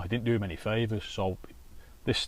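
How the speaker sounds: usual speaking voice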